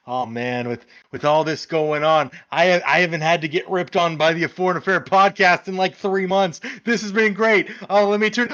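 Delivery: imagined player chatting to himself, pitch climbing; Paul Pogba. Retold or imitated. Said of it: "Paul Pogba's probably somewhere in France being like".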